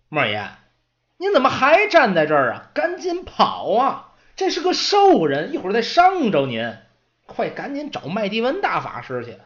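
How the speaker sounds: high, loud urgent pleading; anxious apprentice. Acted. Apprentice begging the old servant to flee, high urgent plea. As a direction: beg the old man to run now.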